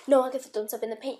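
loud, fast call to the cat; urgent warning to a pet. Real, not acted. Calling to cat.

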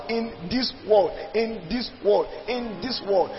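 "world" stressed and falling each time, fading; emphasis on "in this world". Shown as a demonstration. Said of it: "Notice the emphasis of".

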